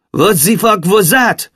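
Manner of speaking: high, drawn-out exclamation; startled exclamation. A narrator's reading. Xavier reacts to the girl vanishing, startled exclamation. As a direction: exclaim it in disbelief, stretching the words. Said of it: "he exclaimed".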